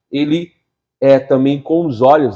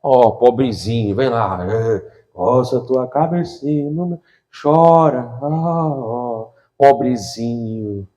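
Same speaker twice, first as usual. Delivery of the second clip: slow, soft mocking coo; mock pity; 3 semitones lower, 3 dB quieter, slower than usual. Preacher mocking a believer who wants pity, slow cooing. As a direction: coo over them like a sulking child. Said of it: "quer que sinta pena dela".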